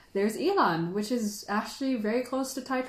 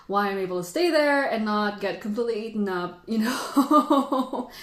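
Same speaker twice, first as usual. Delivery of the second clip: choked up; 4 dB louder than usual. Real, not acted. Thanking her Taiwan tea family.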